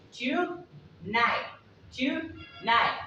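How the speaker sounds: TONIGHT with crisp first T, last T dropped; first T only. Shown as a demonstration. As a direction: say TONIGHT as "too-nigh", halves apart. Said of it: "pronouncing the T at the beginning".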